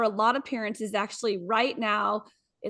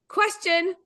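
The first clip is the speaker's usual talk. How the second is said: laughing; 5 semitones higher than usual. Real, not acted. Reading funny quote, laughing.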